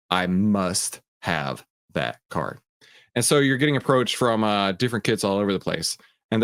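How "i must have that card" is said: put-on covetous kid. Kids covet the card.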